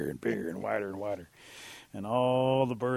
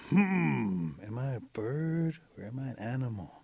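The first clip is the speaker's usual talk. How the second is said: pondering; slower than usual. Acted. Bat stalls, pretending to ponder.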